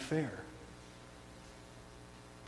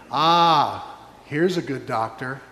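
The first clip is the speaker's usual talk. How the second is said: mocking wailers. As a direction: scoff at the fool doctor. Mourners mock Jesus, laughing.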